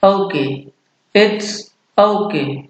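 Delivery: "okay" as OH-kay, slowly separated; demonstrated pronunciation. Shown as a demonstration. Teacher showing how to read the informal reply, careful pronunciation. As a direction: pause between "It's" and "okay". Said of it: "का में एक ही मात्रा".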